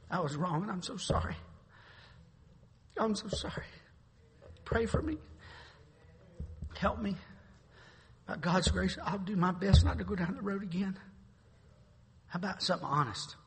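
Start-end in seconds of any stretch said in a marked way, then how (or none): 0.1-11.0 sincere confession. Shown as a demonstration. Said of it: "How about this?".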